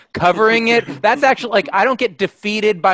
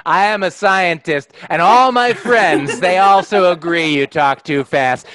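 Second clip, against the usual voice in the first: put-on drunk woman's voice. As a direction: drag it out like a tipsy know-it-all. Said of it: "she was like".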